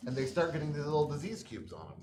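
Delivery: usual speaking voice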